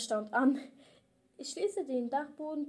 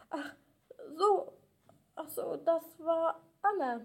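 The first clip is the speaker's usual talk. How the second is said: nervous; 4 semitones higher than usual. Acted. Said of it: "Torge antwortet nervös".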